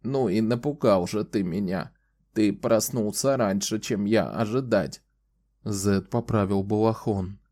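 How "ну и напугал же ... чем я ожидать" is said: put-on creaky old woman voice. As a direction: keep the voice creaky. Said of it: "ответила она скрипучим голосом".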